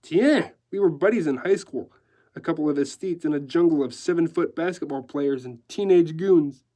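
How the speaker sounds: lively decorator reminiscing; chatty decorator. Acted. Decorator recalling school buddy to newsman, chatty. Decorator's lines in narrated story.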